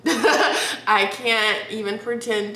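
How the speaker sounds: laughing. Real, not acted. Laughs through the line.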